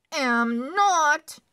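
high, loud indignant retort; shot back. Acted. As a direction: fire it straight back at her. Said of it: "he shot back".

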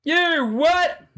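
high, loud disbelief; shocked. Real, not acted. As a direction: blurt it out in shock. Shocked reaction.

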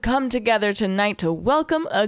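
lightly voiced mayor opening a gathering; mayor's address. Mayor presents a guest to townsfolk, formal announcement.

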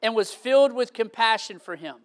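low, measured Bible reading; scripture reading. Real, not acted. Preacher reads scripture to the congregation, low and measured.

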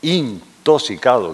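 "intoxicado" slowly, with a full IN at the start; careful, drawn-out "intoxicado", starting on IN; standard pronunciation. Shown as a demonstration. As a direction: sound out "intoxicado" from its first syllable. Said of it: "para decir".

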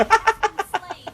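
a high amused cackle; high laugh. Real, not acted. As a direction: laugh at the silly death. Laugh at enemy dying. (높은 웃음)

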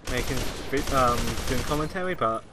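sore, hoarse throat; talking through a sore throat. Real, not acted. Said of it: "as you can tell".

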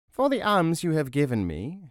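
put-on high-pitched old crone's voice. A narrator's reading. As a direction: grant a reward as a fairy-tale crone. Crone giving her promised reward.

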